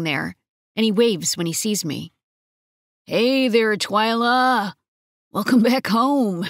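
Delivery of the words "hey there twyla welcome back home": bright, friendly hello; cheerful greeting. A narrator's reading. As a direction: greet her with a wide grin. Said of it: "He greets me with a wide grin".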